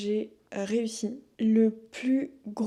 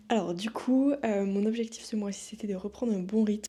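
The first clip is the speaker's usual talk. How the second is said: speaking with a numb lip. Real, not acted. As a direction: talk around an anesthetized lip. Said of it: "si je parle bizarrement c'est parce que".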